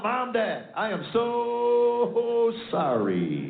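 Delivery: drawn-out, wailing apology; the son at basic training begs his parents; pleading son. Retold or imitated. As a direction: stretch it out like a miserable recruit begging. Son's letter read aloud.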